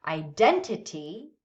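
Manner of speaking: "identity" with the weight on DEN; stress on second syllable. Shown as a demonstration. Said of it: "The second syllable".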